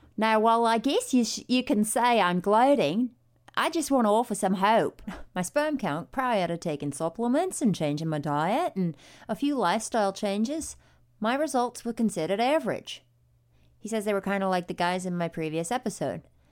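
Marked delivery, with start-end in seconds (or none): 0.2-13.1 put-on Australian accent. Reading aloud an email a man sent, as he requested: Australian accent. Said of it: "He told me to read it in an Australian accent".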